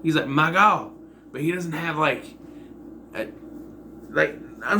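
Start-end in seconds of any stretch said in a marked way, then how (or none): 0.3-0.9 a touch of Southern twang, louder; lightly accented Southern exclamation, punched louder; slight Southern accent. Retold or imitated. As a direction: imitate a mild Southern accent. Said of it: "a little bit of an accent".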